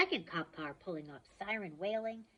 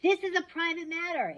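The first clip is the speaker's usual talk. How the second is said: high, loud bellow; 10 semitones higher, 6 dB louder than usual. Acted. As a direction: bellow at the crowd. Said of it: "Ares bellowed".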